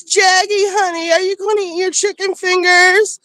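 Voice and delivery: high, syrupy fake British accent calling her son; mock Dorit's fake British accent to her kid. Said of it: "fake British accent".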